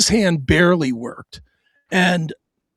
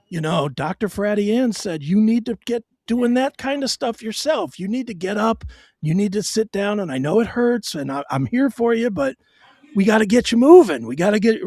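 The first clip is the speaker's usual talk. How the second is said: calm and nice; 4 semitones higher than usual. Retold or imitated. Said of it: "as calmly and as nicely as she could be".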